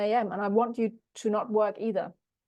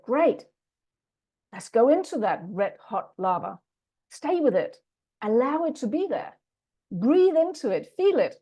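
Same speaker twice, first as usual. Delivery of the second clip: encouraging coach; 4 dB louder than usual. Retold or imitated. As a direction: spur her on to breathe into it. Coach guiding the client's anger.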